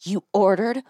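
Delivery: slow, disbelieving mock outrage; imitated fury. Retelling wife learning husband ordered shared ride, mock fury. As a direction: draw it out, appalled.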